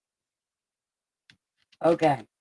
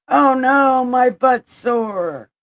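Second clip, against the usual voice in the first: mock whine; 4 semitones higher, 4 dB louder, slower than usual. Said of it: "they were like".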